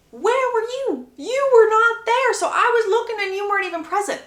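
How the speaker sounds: high-pitched indignant challenge; acted indignation, emphatic and high; accusing. Daughter challenges absent mother.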